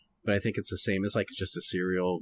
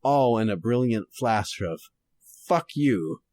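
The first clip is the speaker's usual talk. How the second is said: noir detective. Shown as a demonstration. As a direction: read it like an old detective radio drama. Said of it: "going to try to read this kind of noir-ish".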